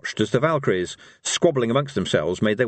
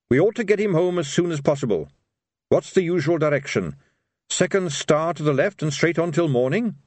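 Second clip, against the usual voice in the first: put-on higher, eager young officer's voice; earnest Carrot; 6 semitones higher than usual. A narrator's reading. Carrot asking Rincewind the way home, earnest. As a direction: urge it earnestly, ending on a question.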